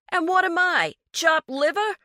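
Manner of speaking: high, loud spluttering outrage; indignant high yelp. A narrator's reading. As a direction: sputter it out, offended. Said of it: "Gary spluttered".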